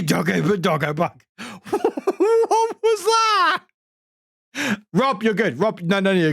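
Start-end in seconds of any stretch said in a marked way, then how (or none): 1.4-3.6 high, slow, voice-changer distortion; secret voice filter. Real, not acted. Streamer baffled as a voice changer kicks in, pitched up and slow. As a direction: sound pitched up by a stream voice effect. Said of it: "It did a T T S in a secret voice".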